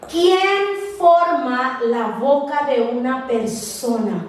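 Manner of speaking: slow, weighty divine voice; solemn scripture reading. Acted. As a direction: read each question slowly and gravely. Reads God's words slowly. (lectura solemne y lenta)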